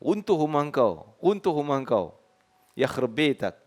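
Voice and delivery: lightly acted Egyptian curse, "Runtuh rumah engkau" thrown out like an insult; mock curse. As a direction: mimic a mild street curse. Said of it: "Okey, biasa je lah". (makian olok-olok yang dilakonkan ringan)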